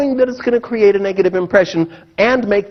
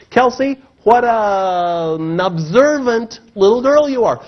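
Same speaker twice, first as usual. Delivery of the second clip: slow, lightly voiced fatherly praise; a hint of a proud dad praising; 4 semitones higher, slower than usual. Father praising his daughter Kelsey, mildly tender. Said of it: "I caught myself and said".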